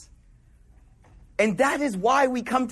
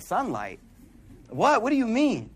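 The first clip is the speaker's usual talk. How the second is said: puzzled. Retold or imitated. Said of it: "he's like".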